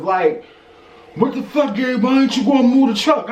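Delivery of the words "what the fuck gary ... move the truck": aggressive coworker. Retold or imitated. Mimicking the coworker yelling about the truck, mock aggressive. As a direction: throw his angry demand back at him, sped up. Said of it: "he extra aggressive".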